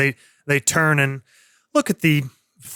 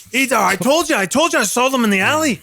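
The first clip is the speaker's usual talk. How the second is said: put-on rowdy drunk; 9 semitones higher, faster than usual. Same drunk voice continues.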